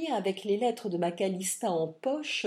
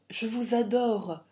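déclaration appuyée, lente et plus forte; passion ardente; 3 semitones higher, 5 dB louder than usual. Acted. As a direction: lui jeter son amour au visage, lentement. (déclaration enflammée, lente et appuyée)

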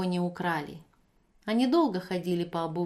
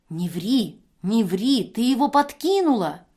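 much higher, much louder; angry shout; 3 semitones higher, 7 dB louder than usual. Acted. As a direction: cut her off angrily. Евдокия кричит. (гневно кричит)

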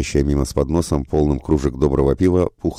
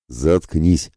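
loud bark; 3 semitones higher than usual. A narrator's reading. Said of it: "громко рявкнул на него Благояр".

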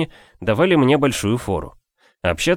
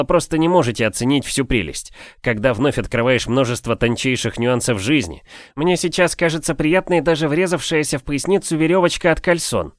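a touch higher, genial and chatty; lightly voiced jovial gentleman; 5 semitones higher than usual. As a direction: play the pleased old engineer lightly. Voices Afanasiy's speech.

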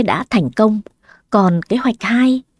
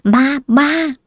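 high panicked cry of ghost; terrified scream; 5 semitones higher than usual. A narrator's reading. Hà screams at the ghost doll, panicked high cry. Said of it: "hét toáng lên".

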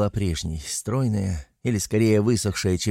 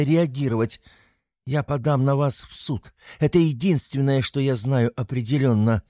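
angry; 4 semitones higher than usual. Acted. Furious patient confronts doctor.

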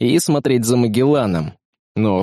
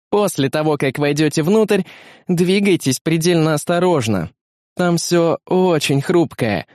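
higher-pitched, careful female guide; Beta briefing the team; 4 semitones higher than usual. Acted. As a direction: give instructions in a lifted female character voice. (Бета инструктирует, высоким голосом)

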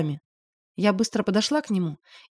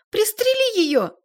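высоко, громко и медленно; истерично потребовать выстрела; визгливый крик; 14 semitones higher, 5 dB louder, slower than usual. A narrator's reading. Валя визжит, требует стрелять. (Валя визжит мужу пристрелить героиню)

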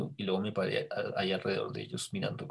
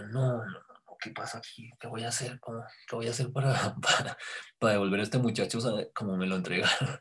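retold panic. Retold panic over the young man.

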